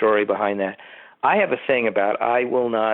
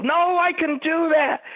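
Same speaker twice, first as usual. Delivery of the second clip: confident actor quote; slower than usual. Retold or imitated.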